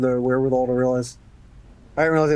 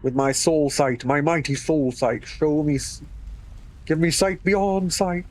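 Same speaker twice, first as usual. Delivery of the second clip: dramatic incantation. Pretend. Invoking soul sight dramatically.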